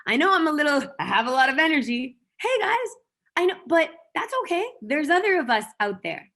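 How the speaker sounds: high, loud, bubbly call to the crowd; excited shout-out. Retold or imitated. Calling out to like-minded people, loud and high-energy. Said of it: "You just have to shout out and say".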